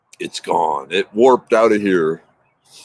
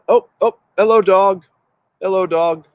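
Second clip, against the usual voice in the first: higher, louder hello for the pup; delighted dog greeting; 9 semitones higher, 4 dB louder than usual. Real, not acted. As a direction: coo up at the dog peeking through.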